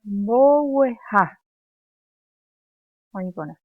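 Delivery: each word called out loud and slow for the class; loud drill call. Shown as a demonstration. Teacher to pupils, loud slow drill.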